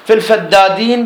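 الفدادين with a geminated first د; doubled consonant. Shown as a demonstration. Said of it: "بالتشديد".

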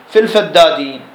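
الفدادين with a geminated first د; doubled consonant. Shown as a demonstration. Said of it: "بالتشديد".

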